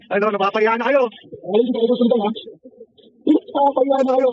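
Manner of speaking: drawn-out mocking tease; slow taunt. Real, not acted. Streamer slowly taunting embarrassed trolls, drawn out. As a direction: stretch each word to rub it in.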